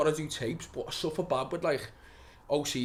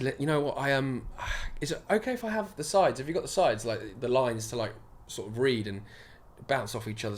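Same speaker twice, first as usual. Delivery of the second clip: lightly put-on posh speech; hesitant, polite posh accent; mock posh audition voice; imitated posh accent; 3 semitones lower, 4 dB quieter than usual. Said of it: "told me to speak like this".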